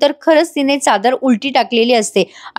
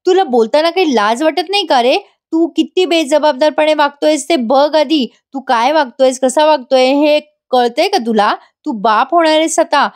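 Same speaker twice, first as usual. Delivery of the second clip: higher-pitched mild mock yell; 4 semitones higher than usual. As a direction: imitate an outraged wife's tirade. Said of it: "नैना अजून ओरडत म्हणते".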